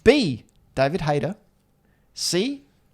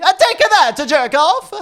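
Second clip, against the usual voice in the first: mock Mario voice; 9 semitones higher, 4 dB louder than usual. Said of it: "not in a Mario voice at all".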